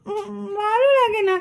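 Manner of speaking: slow, soft whine with a tearful edge; a sleepy child sulking at being woken; whining. Acted. Daughter refusing to get up, soft slow tearful whine.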